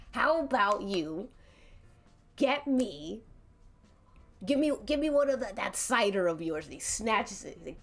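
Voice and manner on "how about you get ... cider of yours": lightly voiced gruff bully; gruff tough guy. Angry brawler demanding the wizard's cider, lightly gruff. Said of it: "I'm trying to get a gruff voice".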